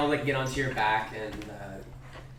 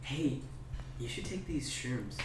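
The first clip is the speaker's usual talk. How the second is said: Jet; 8 dB quieter, slower than usual. Acted. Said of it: "Jet kinda comes over to you and says".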